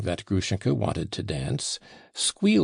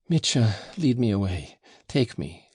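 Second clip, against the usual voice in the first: helpless. Acted. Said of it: "said Grushenka helplessly".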